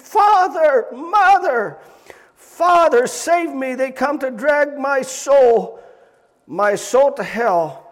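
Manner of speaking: high, loud shrieking pleas; unearthly voice. Retold or imitated. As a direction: shriek for rescue, slowing at end. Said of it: "with an unearthly voice he shrieked".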